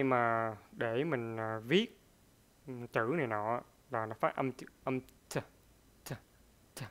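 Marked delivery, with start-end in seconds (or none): 5.0-6.8 a crisp t said on its own; a clearly released t; a clear isolated t sound. Shown as a demonstration. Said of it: "Mình nghe rất là rõ".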